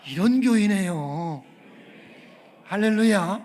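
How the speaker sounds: rally the church with a big shout; preacher whipping up the pews; rousing shout. Real, not acted. Pastor rouses congregation to respond.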